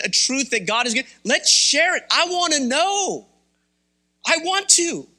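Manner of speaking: high, eager preacher's plea; fervent appeal. Acted. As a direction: fire them up to share. Urging the congregation to share.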